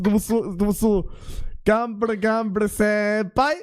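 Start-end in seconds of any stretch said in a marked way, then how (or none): 1.6-3.5 slow, drawn-out anime cheer; excited anime fan. Shown as a demonstration. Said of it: "So musst du es sagen".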